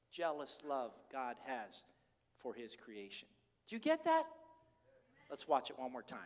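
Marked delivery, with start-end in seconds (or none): 3.7-4.2 high, urgent rhetorical question; preacher pressing the congregation; urgent challenge. Real, not acted. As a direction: press the crowd to get it. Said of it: "preacher presses the congregation".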